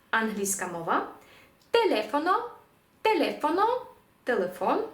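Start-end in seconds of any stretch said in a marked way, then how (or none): 1.7-3.8 «телефоно» modelled as te-LE-fo-no, pitched up; marked-accent stress. Shown as a demonstration. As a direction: stress the second syllable of «телефоно». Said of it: "поставити наголос там, де він стоїть".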